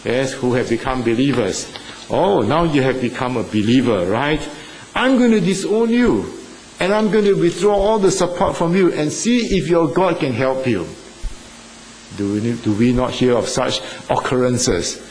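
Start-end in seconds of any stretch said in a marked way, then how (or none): 2.1-10.9 put-on high, threatening rebuke to a child; a father's scornful threat, raised high; angry father. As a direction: disown the believer, heated. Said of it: "they get reviled in the home".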